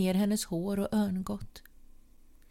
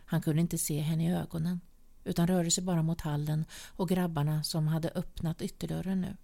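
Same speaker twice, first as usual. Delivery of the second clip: ordinary delivery, nothing marked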